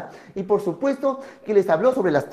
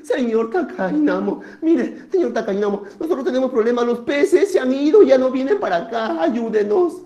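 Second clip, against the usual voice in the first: lightly voiced villagers' appeal; a touch higher, asking for help; pleading townspeople; 3 semitones higher, 4 dB louder than usual. Villagers tell Takainamo the fish have gone, mildly pleading. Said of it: "la gente empezó a decir".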